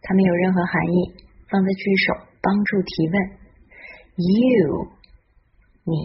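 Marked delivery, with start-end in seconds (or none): 4.2-4.9 "You" drawn out in an arc; pronunciation demo. Shown as a demonstration. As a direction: model "You" slowly for learners. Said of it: "现在我们来看看发音的部分".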